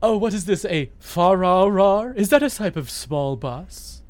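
posh rich guy. Pretend. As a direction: play a clueless snob. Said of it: "the character we've invented of rich guy".

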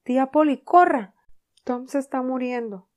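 very loud, high panicked yell; frantic shout. Acted. Sid yelling to Aunt Polly for help, panicked. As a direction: scream for help down the stairs. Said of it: "y gritó".

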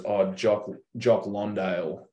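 slow "Londale", the surname misnamed with an "on" vowel; coach's mispronunciation. Retold or imitated. Coach in post-game interview naming player, mispronouncing "Londale" as LON-dale. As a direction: imitate the coach's slip, saying "Londale" with LON first. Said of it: "And he, for some reason, goes".

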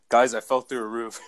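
laughing quote. Retold or imitated. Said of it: "you just texted us, like".

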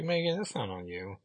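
soft, breathy consoling whisper; gentle whisper. Acted. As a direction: whisper comfort to her. Consoling the sad character.

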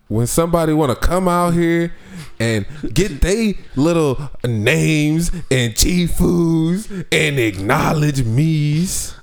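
hammed-up indignant rant; mock offended. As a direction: play it wounded and dramatic. Mock offended rant about name.

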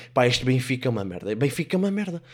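fed-up, loud exasperated outburst; angry fan ranting. Acted. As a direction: curse your losing team at the TV. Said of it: "a mulher deve estar assim".

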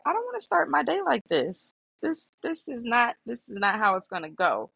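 mock telling-off that starts high and settles. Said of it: "I'm raising my voice".

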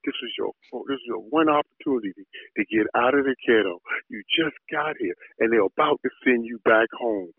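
scolding himself under his breath; inner voice. Retold or imitated. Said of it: "I'm like".

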